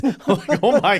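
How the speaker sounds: high, loud laughing. Real, not acted. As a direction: burst out laughing. Laughing at friend's shadowboxing.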